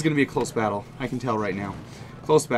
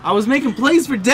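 loud, high cry of protest; gamer's outraged lament; exasperated shout; 11 semitones higher, 9 dB louder than usual. Real, not acted. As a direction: wail it at full volume as the game slips away. Loses while boasting.

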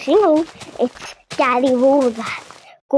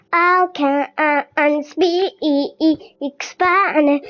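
slow demo; much slower than usual. Shown as a demonstration. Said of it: "Mom, say this".

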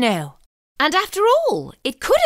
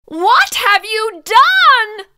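slow horrified question; 4 semitones higher, 4 dB louder, slower than usual. Acted. Gum on the page.

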